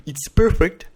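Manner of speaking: mock-proud English in a French accent. Real, not acted. Streamer joking about their own English, French-accented English. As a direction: show off English with a French accent, tongue in cheek. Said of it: "désolé, mon accent anglais".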